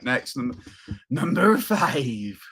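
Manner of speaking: announcer countdown. Acted. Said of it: "countdown item".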